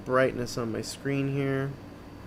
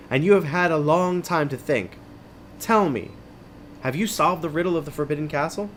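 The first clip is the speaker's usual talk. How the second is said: knight; 4 semitones higher than usual. Acted. Voices taller knight questioning companion.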